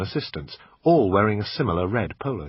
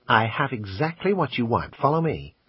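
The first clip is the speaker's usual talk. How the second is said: pawn shop salesman; 3 semitones higher than usual. Acted. Assistant pitching the camera to the customer, salesman voice. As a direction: sell it like a pushy shop assistant.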